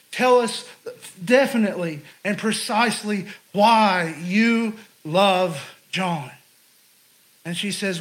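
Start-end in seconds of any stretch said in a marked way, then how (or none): 0.1-6.3 emphatic, spaced-out words, lightly acted professor; insistent questioning. Professor presses his student to say exactly why, insistent. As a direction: press each word home.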